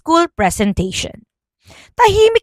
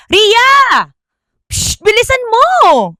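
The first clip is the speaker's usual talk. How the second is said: calling out; 12 semitones higher, 3 dB louder, slower than usual. Acted. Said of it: "sumigaw siya".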